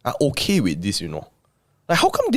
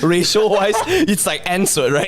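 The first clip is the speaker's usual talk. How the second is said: squeaky high voice; 10 semitones higher than usual. Real, not acted. Joking, voice jumps high.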